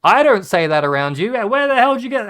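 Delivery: mock shock. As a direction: play the appalled adult catching the kid swearing. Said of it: "And I'm like".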